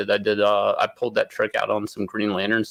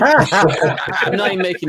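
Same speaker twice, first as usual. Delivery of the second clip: laughing, higher and louder; 9 semitones higher, 6 dB louder than usual. Real, not acted. Artist laughing while swearing the story is true. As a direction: insist through a laugh. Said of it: "laughs while insisting".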